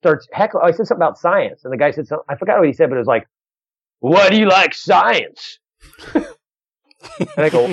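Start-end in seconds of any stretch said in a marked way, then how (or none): 4.0-5.6 slow, drawn-out heckler's challenge, lightly voiced; drunk heckler. Drunk man interrupts comic's act, lightly mimicked slurring heckler. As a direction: imitate a drunk audience member, dragging the words. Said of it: "you know, he just drunk".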